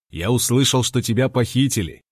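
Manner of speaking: usual speaking voice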